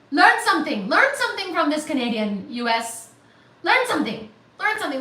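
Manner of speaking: hint of a stern teacher; mock scolding teacher. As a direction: chide the class with a grin. Teacherly chiding of chat.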